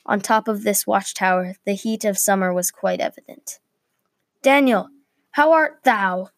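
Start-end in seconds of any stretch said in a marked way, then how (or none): 4.4-6.3 raised, higher-pitched call across to a guard; shouted greeting. A narrator's reading. Guard calls to Daniel from the other watchtower, shouted greeting. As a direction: hail him from a distance, mildly. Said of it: "shouted a guard from the other watchtower".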